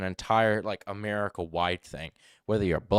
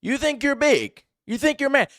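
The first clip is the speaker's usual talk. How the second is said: very high, loud accusing shout; shouted berating; 9 dB louder than usual. Real, not acted. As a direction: yell it at him, challenging his manhood. Berating the absent suspect loudly.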